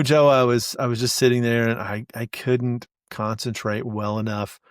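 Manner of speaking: a hint of a dejected athlete in a post-game interview; Lewis interviewed. Lewis answers the reporter about his blunder, mildly deflated. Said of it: "Lewis, what did you think about".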